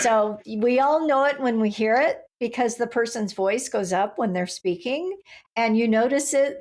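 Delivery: each phrase ends on a questioning rise, "it" lifted up; upspeak demo. Shown as a demonstration. Host demonstrating upspeak to listeners, rising phrase ends. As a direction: let "and you notice it" climb at the end like an unsure question. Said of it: "like what I'm doing right now".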